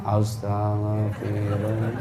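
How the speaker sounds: low, soft, slow mock weeping chant; pretend crying. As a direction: drag it out as if tearful. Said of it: "Sambil pura-pura menangis". (pura-pura menangis)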